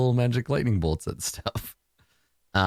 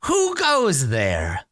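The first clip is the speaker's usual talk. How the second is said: slow, higher put-on voice; horse creature; 5 semitones higher, much slower than usual. Horse creature challenges an unseen visitor, slow theatrical voice. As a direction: draw it out, high and slow. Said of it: "then it says".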